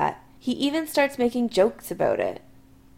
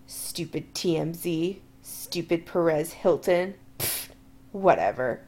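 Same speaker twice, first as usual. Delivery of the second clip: grumbling; 3 semitones lower, slower than usual. Acted. Drunk Chris grumbling on.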